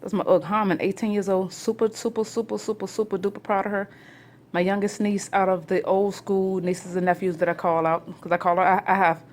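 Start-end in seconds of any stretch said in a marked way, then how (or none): 1.5-3.9 gushing pride. Real, not acted. Gushing about her niece.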